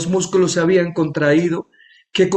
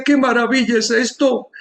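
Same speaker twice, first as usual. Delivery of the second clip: amazed exclamation; 6 semitones higher than usual. Retold or imitated. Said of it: "levantó las manos y decía".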